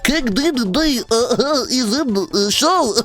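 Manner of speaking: high, giggling mock excitement; giddy high voice. Retelling his stream, a high giggly kid voice. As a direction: squeal it out between giggles like an overexcited kid. Imitating himself pulling up video.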